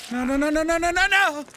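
panicked no's. Real, not acted. Gamer panicking as his climber starts slipping. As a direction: beg it not to fall.

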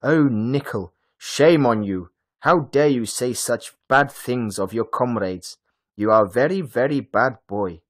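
put-on loud, shocked teacher telling a boy off; appalled reprimand; shocked scolding. A narrator's reading. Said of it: "Frau Hoch was shocked".

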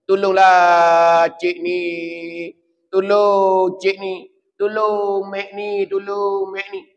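slow, sung-out begging from the grave; drawn-out wail for help; sing-song plea of a tormented soul; pleading voice of the dead. Retold or imitated. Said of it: "dia nak minta".

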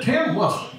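called out high, surprised recognition; calling out a name. Retold or imitated. Spotting old friend Tim in Guitar Center, calling out his name. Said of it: "like that".

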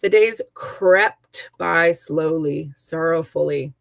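slow storybook read, stretching out crept by slowly; expressive reading. Shown as a demonstration. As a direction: read it slowly, letting the days drag. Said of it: "there's an alliteration".

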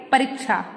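"परीक्षा" with a short i, "pa-rik-sha"; wrong pronunciation. Shown as a demonstration. Teacher asking if it's this, mispronounced. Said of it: "अशुद्ध में क्या लिखा है".

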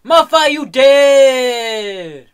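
slow, drawn-out taunt; gloating taunt. Acted. Gamer gloats slowly over a killed monster. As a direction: savour the kill.

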